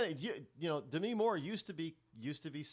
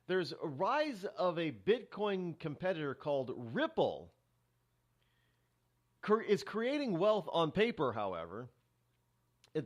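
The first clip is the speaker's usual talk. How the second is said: news read; 4 semitones higher, 5 dB louder than usual. Real, not acted.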